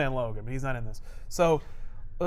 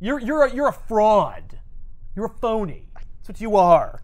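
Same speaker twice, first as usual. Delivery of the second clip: contemptuous Hulk; 4 semitones higher than usual. Retold or imitated. Hulk berating Wonder Man as a fraud, scornful. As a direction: tear into him with contempt.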